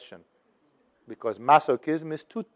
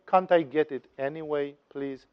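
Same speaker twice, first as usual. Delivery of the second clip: pleading request; 8 dB quieter than usual. Acted. Lazy seekers asking for an easy way, softly pleading. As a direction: ask quietly, coaxing for a favour. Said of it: "Other people say".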